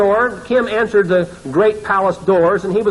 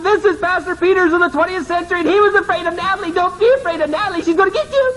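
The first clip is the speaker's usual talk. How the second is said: much higher, fast mocking proclamation; mock announcement; 11 semitones higher, faster than usual. Friends yelling to the banquet, higher mocking voice. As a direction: announce his shame to the whole room.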